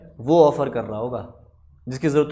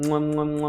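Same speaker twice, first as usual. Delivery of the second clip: kissing sounds. Acted. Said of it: "पच्ची पुच्ची कर करके".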